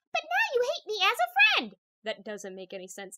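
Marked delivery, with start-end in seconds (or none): 0.2-1.8 squeaky, very high unicorn voice. Narrating a girl voicing her unicorn's answer to her: squeaky Twilight Sparkle voice. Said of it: "she made the unicorn answer in a squeaky voice".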